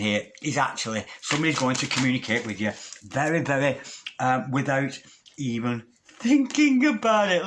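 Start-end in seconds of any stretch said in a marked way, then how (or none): 5.4-7.5 impulsive rush. Retold or imitated. Excited rash partner.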